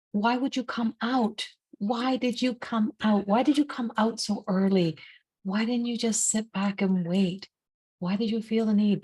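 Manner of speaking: lightly acted dismay, pitch lifted; mild dismayed pleading. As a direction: plead with them, gently reproachful. Distressed retold questioning of the bees.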